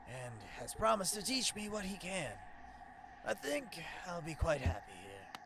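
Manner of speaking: relaxed dopey stoner. Acted. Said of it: "giving him the fucking stoner voice".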